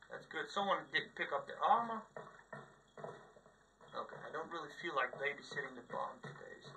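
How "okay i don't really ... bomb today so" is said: unvoiced muttered whisper aside. Real, not acted. Player whispering to himself while waiting in the match. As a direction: whisper it to yourself.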